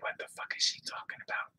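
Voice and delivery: soft whispered aside; hushed disbelieving whisper; whispered thought. Retold or imitated. Inner reaction to mother's insult.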